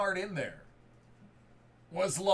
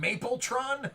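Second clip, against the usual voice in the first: amused, higher "Mapletron?" with a laugh; laughing question; 5 semitones higher than usual. Real, not acted. Breaker amused by a nickname, laughing "Mapletron?" up high. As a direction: chuckle through "Mapletron?" as a rising question. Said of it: "what are they calling him".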